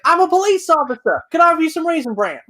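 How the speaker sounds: high-pitched mimicry of a girl character; imitated TV character. Recalling what this chick said as the character, high mock voice. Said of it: "this chick's like".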